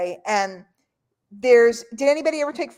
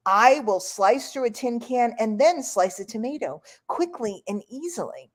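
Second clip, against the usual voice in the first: mock infomercial. Ginsu knives infomercial parody.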